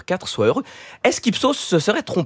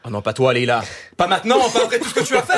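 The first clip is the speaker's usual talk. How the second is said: mock betrayal; 3 semitones higher than usual. Columnist pleading with colleague Leïla, mock betrayed.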